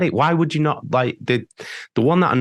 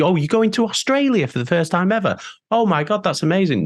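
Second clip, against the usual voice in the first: higher-pitched, hammed-up amazement; mock excitement; 6 semitones higher than usual. Band member imitating fans' reaction to Australia tour news, mock excitement. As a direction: imitate someone gushing over big news.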